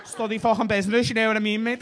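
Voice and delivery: exaggerated Scouse impression; Scouse twang. Comic imitating an audience member who studied business, mock Scouse. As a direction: mimic a foreigner gone thoroughly Scouse. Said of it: "like, a Scouse twang".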